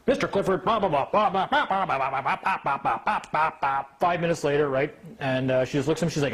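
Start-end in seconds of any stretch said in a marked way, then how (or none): 0.1-3.8 mock droning judge. Mocking judge's droning, laughing.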